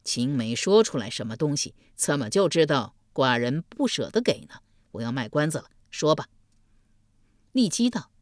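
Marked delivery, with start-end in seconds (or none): 0.0-6.3 duke. Acted. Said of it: "歪着脖子说道".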